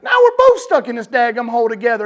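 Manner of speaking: high, loud, frantic protest; incredulous high-pitched outburst, loud throughout; exasperated yelling. Retold or imitated. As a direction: act out yelling at someone who just made things worse. Acted panicked protest at man jumping in.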